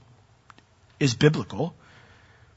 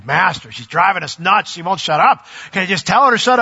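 annoyed complaint; 5 semitones higher, 4 dB louder than usual. Retold or imitated.

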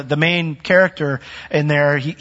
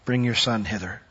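reading Jesus' rebuke. Acted. Preacher reading Jesus' rebuke aloud, slow and solemn. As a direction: read the old words with weight. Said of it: "And Jesus answering said".

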